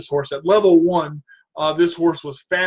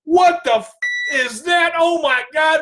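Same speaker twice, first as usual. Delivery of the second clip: much higher, louder panicked cry; mock horse panic; 9 semitones higher, 3 dB louder than usual. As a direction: yelp as the startled horse. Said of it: "That horse had to be like".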